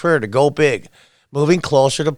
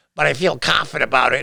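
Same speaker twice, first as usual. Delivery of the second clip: put-on voice, rough and creaky. Quoting Pelosi's response about her colleagues, in a Pelosi voice. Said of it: "I'm doing a Pelosi voice now".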